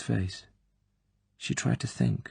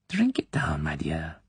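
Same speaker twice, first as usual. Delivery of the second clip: clucking encouragement; 2 semitones lower, 3 dB quieter than usual. Acted. Klebb hovering over the girl, clucking encouragement. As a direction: cluck at her like a mother duck. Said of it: "clucking encouragement".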